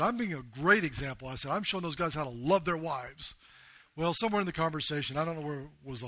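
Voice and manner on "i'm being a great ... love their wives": angry retort. Retold or imitated. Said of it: "I'm mad at this point".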